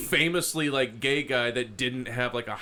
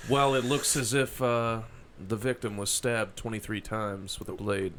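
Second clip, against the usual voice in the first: detective impression. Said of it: "as a detective at a murder scene".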